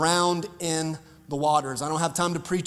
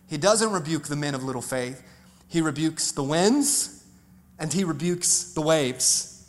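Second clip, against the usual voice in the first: quiet, deliberate; 4 semitones lower, 5 dB quieter than usual. Acted. Hushed contrast in sermon.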